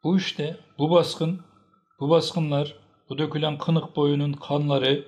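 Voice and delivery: high, loud, accusing list; angry rebuke. A narrator's reading. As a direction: press each accusation home. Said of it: "diye çıkıştı".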